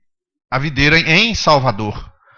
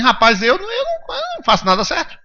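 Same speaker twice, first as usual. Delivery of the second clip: self-deprecating inner voice; 12 semitones higher than usual. Pretend. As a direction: whimper like someone who gives up. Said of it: "você diz assim".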